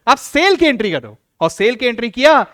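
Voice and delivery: सेल pressed firmly each time; teacher punching सेल in every phrase; stress on सेल. Shown as a demonstration. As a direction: lean on the word सेल so students remember it. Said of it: "मैं सेल word पे stress इसलिए दे रहा हूं".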